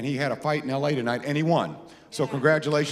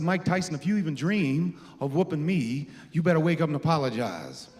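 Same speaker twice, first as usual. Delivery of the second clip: boxer's boast impression; 2 semitones higher than usual. To Mike, a hint of the champ's warning. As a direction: lay down the challenge like the champ. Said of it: "Show Mike".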